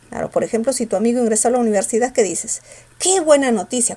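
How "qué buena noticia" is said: "Qué" pushed out with force; emphatic exclamation led by a strong "Qué"; stress on QUÉ. Shown as a demonstration. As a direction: lean hard on "Qué", exclaiming. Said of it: "con fuerza".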